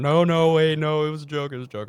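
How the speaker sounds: high, loud, frantic protest; panicked woman. Retold or imitated. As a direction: plead fast and high, backpedalling. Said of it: "just starts going".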